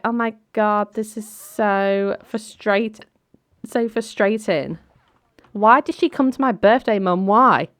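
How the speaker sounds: frustrated whine. Acted. Daughter complaining to Mum about a birthday guest, exasperated. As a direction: stretch it out high, then protest to Mum.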